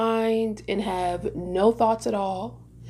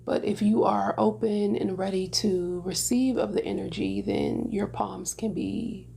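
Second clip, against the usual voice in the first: unhurried meditation guidance with long pauses; guided meditation. Real, not acted. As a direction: gently lead listeners into stillness, leaving space between phrases.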